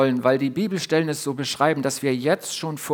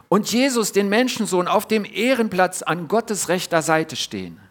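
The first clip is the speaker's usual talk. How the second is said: calling out; 3 semitones higher than usual. Acted. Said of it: "rief Stephanus".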